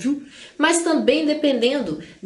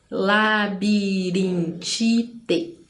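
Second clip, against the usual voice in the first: LABIRINTITE very slowly as la, bi, rin, ti, te; split into syllables; 3 semitones lower, much slower than usual. Shown as a demonstration. Teacher showing polysyllables, labirintite split very slowly. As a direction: draw labirintite out in five beats, la, bi, rin, ti, te. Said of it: "com quatro ou mais".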